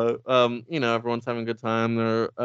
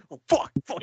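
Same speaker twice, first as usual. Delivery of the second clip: higher-pitched imitation of panic; mock freak-out; 5 semitones higher than usual. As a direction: play someone starting to panic. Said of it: "fucking freaking out".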